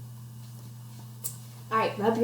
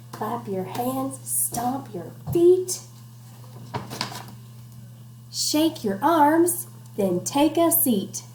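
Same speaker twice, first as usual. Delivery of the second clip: slow rhythmic rhyme reading; sing-song read-aloud; 2 semitones higher, slower than usual. Acted. Teacher reading rhyme to class, slow sing-song. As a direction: bounce the rhyme for kids. Reading picture book to children.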